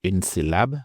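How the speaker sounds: usual speaking voice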